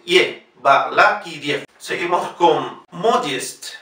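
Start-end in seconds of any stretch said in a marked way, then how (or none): 0.0-1.6 "ye" alone, then Balakiriev slowly. Shown as a demonstration. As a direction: Balakiriev ending in a gliding "-yef". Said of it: "No se olviden".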